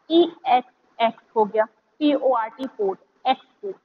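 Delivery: एक्सपोर्ट built up as ई एक्स then पोर्ट; read in chunks. Shown as a demonstration. Teacher shows students how to sound out एक्सपोर्ट. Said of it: "इस तरीके से पढ़ें".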